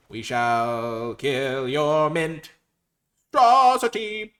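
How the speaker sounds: very slow, drawn-out proclamation; slow grand threat. Acted. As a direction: announce doom like a villain.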